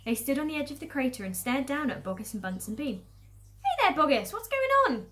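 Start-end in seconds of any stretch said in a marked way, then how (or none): 3.6-5.1 high, loud hail; calling down. Acted. Villagers on crater's edge to the farmers, calling out. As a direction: shout a question to someone far below.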